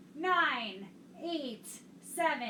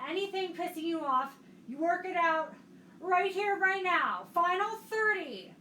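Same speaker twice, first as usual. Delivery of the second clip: pumped-up coaching; 4 semitones higher, 4 dB louder than usual. Real, not acted. Pushing class through final minute.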